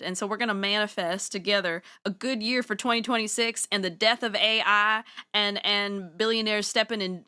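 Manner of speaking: put-on Southern pep talk, emphatic; rally everyone in a playful Southern accent. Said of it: "Oh, I'm Southern too".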